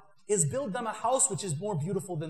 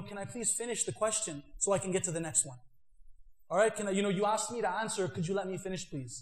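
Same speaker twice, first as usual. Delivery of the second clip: soft, courteous request to finish; very polite; 2 semitones lower, 5 dB quieter than usual. Shown as a demonstration. Student politely asking an interrupting debater to let him finish, softly. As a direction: ask kindly and softly, no edge. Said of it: "Ask them very politely".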